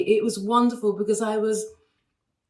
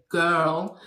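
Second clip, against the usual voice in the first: lightly imitated American man, a bit lower; hint of an American accent; attempted American accent; 4 semitones lower than usual. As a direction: have a half-hearted go at an American accent. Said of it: "I can't do an American accent".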